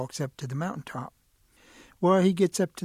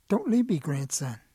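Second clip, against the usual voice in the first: rattlesnake calling; 3 dB louder than usual. Acted. Mysterious voice calling the boy.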